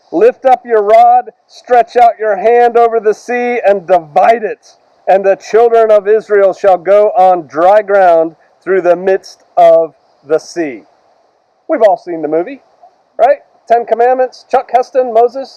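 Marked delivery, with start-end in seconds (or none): 0.1-10.9 slow, weighty reading of scripture; solemn scripture reading. Acted. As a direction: read the command slowly, like an oracle. Reads scripture commands solemnly.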